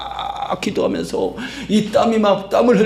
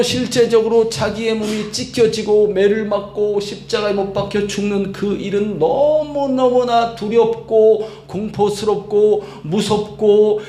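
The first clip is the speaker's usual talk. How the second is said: usual speaking voice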